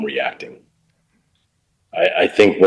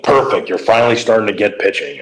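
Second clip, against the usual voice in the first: a touch of gruff approval; growling old coach; 3 semitones higher than usual. Retold or imitated. Mel Queen praising the young pitcher, light mock growl. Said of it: "he kinda growled when he talked".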